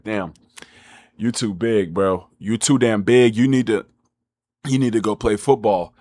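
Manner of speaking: lightly voiced coach telling him he's too big; imitating the coach. Coach to chubby player, lightly voiced, low and blunt. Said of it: "the coach tells me".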